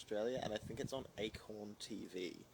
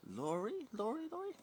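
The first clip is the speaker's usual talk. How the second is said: calling out; 13 semitones higher than usual. Pretend. Calling a viewer's name.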